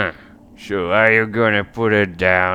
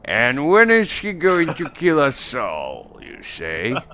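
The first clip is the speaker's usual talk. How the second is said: chieftain; 5 semitones higher, slower than usual. Acted. Chieftain questions the seer's prophecy, slow voice sinking at the end. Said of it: "chieftain is like".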